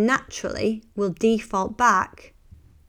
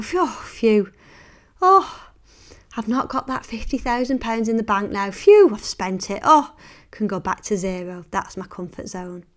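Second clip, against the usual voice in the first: mock relief; 4 dB louder than usual. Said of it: "It's like".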